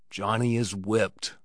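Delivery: a father grimly conceding his son's defeat, slow and husky; vibrant huskiness. Acted. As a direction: deliver the verdict slowly and heavily, a touch husky. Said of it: "his voice changed into that vibrant huskiness".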